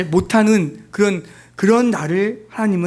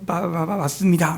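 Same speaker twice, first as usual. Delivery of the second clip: a light imitated stammer on the first syllable; mock stammer; 4 dB quieter than usual. Preacher imitating the stammering prime minister, lightly stuttered. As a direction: stutter 마- before 맞습니다, softly. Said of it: "뭐 이렇게 했겠죠".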